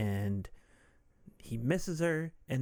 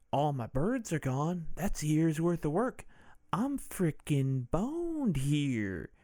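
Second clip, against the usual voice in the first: Michael Douglas impression; 4 semitones higher, slower than usual. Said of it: "That's what Michael Douglas actually sounds like".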